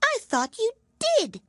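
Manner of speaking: icy courtesy from a small mouse; frowning but polite. A narrator's reading. Mouse to the lory, frowning yet polite. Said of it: "said the mouse".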